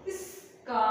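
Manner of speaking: ఇస్కా slowly parted after the S; split cluster demo. Shown as a demonstration. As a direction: hold the S of ఇస్కా, then release a long కా. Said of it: "కలిపితే స్కా". ("ఇస్కా": ఇస్, కా విడదీసి)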